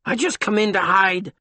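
lightly voiced thin, scared man; thin whispery voice. A narrator's reading. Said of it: "in a thin, whispery voice".

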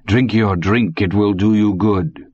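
a hint of the old German. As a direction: urge the boy, amused.

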